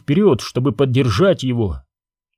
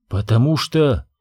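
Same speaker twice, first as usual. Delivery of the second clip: calmly. Acted. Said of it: "спокойно ответила королева Веда".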